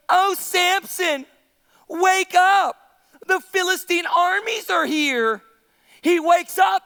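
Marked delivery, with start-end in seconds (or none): 0.1-5.4 drawn-out, mock-alarmed call; lightly hammed-up wake-up call; Delilah. Preacher plays Delilah waking Samson, slow mock call. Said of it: "all of a sudden she goes".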